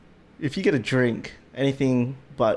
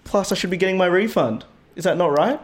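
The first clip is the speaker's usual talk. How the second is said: can't believe what he's hearing; outraged disbelief; 5 semitones higher than usual. Retold or imitated. Continues retold outrage.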